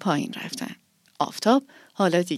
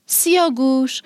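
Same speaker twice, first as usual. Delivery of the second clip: raised, higher call across the yard; 5 semitones higher than usual. Acted. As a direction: call him to wake up. Waking the lynx, calling.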